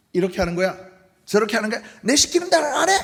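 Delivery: loud high barking orders; a coach yelling at his players; bossy coach. Retold or imitated. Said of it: "감독이 있어요". (호통치는 감독 흉내)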